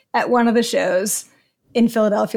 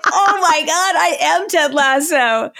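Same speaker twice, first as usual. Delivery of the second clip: high, excited gasp of recognition; giddy realization; 6 semitones higher than usual. Retold or imitated. Telling a podcast host about her husband's remark, high and giddy. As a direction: squeal it like a happy discovery. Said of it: "And I was like".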